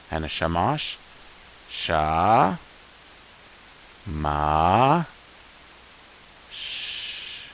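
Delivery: slow, broken into sounds sha, ma, sh; sounding out letters. Shown as a demonstration. Teacher sounding out shamash piece by piece for students. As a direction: model each sound apart. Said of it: "So let's try to read this".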